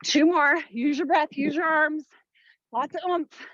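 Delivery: barking gym coach. Real, not acted. Coach pushing class through reps.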